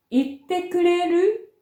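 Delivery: 「言ってくれる」の語尾を上げる; uptalk. Shown as a demonstration. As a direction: lift the end of 言ってくれる into a rise. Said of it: "語尾を上げて発音します". (語尾上げの「言ってくれる」)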